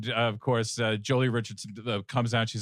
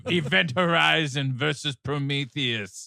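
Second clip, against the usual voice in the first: mock trailer announcer; 5 semitones higher than usual. Pitches mock sequel like a trailer.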